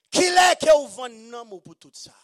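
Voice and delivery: loud, high preached question; loud high accusing question; shouted challenge. Acted. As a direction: hurl the question at the crowd.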